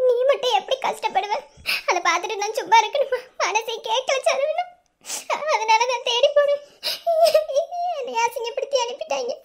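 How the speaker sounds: tearful, voice catching on sobs; crying. Acted. Wife tells her husband through tears she was insulted. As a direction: plead through tears, choked up. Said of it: "நீ எதுக்கு அழுதுக்கு இருக்க".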